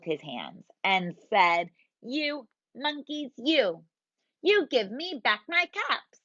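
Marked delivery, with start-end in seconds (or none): 2.0-6.2 angry peddler. Acted. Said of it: "This made the peddler angry".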